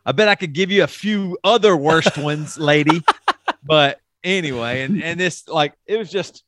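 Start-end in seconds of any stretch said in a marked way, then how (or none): 0.0-3.0 mocking retort. Sarcastic retort to his mom.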